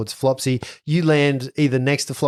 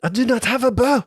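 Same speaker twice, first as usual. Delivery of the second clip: high helpless voice; 11 semitones higher than usual. Acted. GM voices Saloni.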